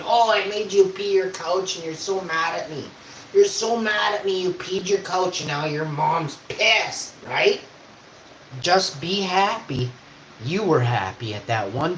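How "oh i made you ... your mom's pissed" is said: slower, higher sneering mimicry; high mocking taunt at an upset viewer. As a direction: taunt a sore viewer in a mock voice.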